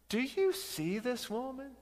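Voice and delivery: quoting Jesus. Acted. Jesus quoted to Simon.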